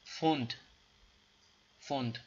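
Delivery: فوند said as FOND with a plain f; teacher repeats فوند; German word model. Shown as a demonstration. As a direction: drill the word. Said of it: "پاوند میگه".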